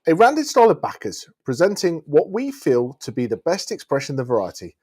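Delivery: reading a wine label aloud; measured, descriptive label read; sommelier tasting notes. Acted.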